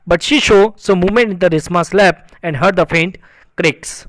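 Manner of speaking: slow, measured English reading; story read-aloud. A narrator's reading. Teacher reading a story sentence to students, slow read-aloud. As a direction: read each phrase out slowly and deliberately.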